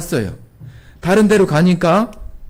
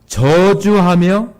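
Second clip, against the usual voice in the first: ordinary delivery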